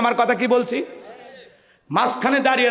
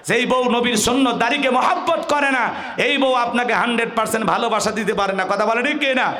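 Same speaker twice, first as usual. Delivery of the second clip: higher, sustained sermon delivery; fervent preaching; 4 semitones higher than usual. Real, not acted. Preacher likens chocolate to the Prophet's cup, fervent preaching. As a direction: drive the lesson home with fervour.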